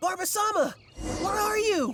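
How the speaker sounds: long, searching, very high, drawn-out yell. Calling out while searching for Barber-sama: yelling. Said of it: "Unless we could start yelling too".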